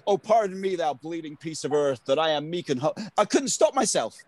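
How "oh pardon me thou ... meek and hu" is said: British actor's imitation American accent; Shakespeare recited in a put-on American accent; misjudged American-accented audition speech. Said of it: "did it with an American accent".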